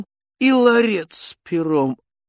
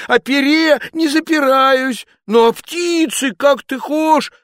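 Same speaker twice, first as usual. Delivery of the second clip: loud, higher cry of protest; Ivan shouting; 11 semitones higher, 6 dB louder than usual. Acted. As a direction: shout back the denial. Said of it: "закричал он".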